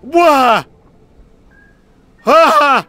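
loud confused repeated what; loud startled questions; baffled loud whats. Real, not acted. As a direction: shout your disbelief. Confused by sudden event in game.

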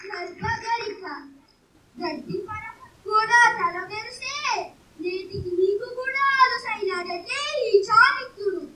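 threatening stage declamation with forceful bursts; vengeful scholar's theatrical taunt; Chanakya. Acted. Scholar threatens the grass that pricked his foot, menacing theatrical declamation. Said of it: "నేను చాణక్య ఏకపాత్రాభినయం చేయబోతున్నాను".

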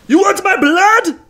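high, strained cry of outrage; impassioned yell. Retold or imitated. Co-host acting Nick Cage pulling out the arrow, impassioned yell. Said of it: "He pulls it out and yells".

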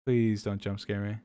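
slow, hushed nervous plea; drawn-out quiet begging, bracing; scared slow pleading. Real, not acted. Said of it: "My heart is beating".

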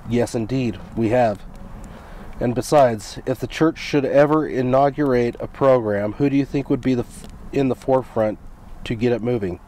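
measured read-aloud of a speech; formal quotation reading, evenly paced. Real, not acted. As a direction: read the quote out in deliberate phrases.

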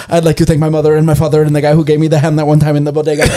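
rattled-off thank-you speech; mock acceptance speech. Batter at the plate thanking everyone, fast mock speech. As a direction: race through the thanks in one breath. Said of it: "he goes".

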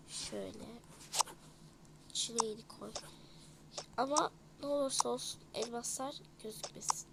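secretive hushed whisper. Acted. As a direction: whisper so nobody hears. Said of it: "Kimse görmesin". (gizli gizli fısıldayarak)

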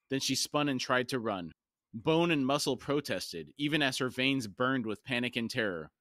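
measured, dramatic audiobook reading; story narration. A narrator's reading. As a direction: read it as solemn fantasy narration. Reads the novel aloud.

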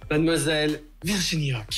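lightly voiced old TV host announcing; a hint of a showman host; Jacques Martin impression. Host Jarry greeting his guest, a hint of Jacques Martin. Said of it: "je l'ai fait à Jacques Martin".

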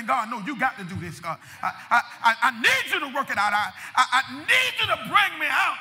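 building from pleading to a full cry; desperate pleading prayer. Acted. Preacher acting out a desperate prayer, building to a shout. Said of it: "snotty nose prayer".

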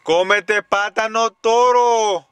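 put-on slow, high baby-talk command; mock scolding. Scolding the girl over her banana, mock scolding. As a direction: drag out each word in a high, teasing scold. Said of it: "porque yo la regaño".

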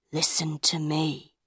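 soft, low-key warning; quiet. A narrator's reading. Madame Giry draws near the two men, quiet warning. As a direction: drop the voice right down. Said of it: "she said quietly".

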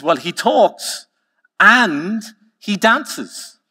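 high, slow, drawn-out boast; showy barman pitch, pausing after AND; salesman's build-up. Acted. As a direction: stretch each selling point for comic effect. Barman proudly sells the second parrot.

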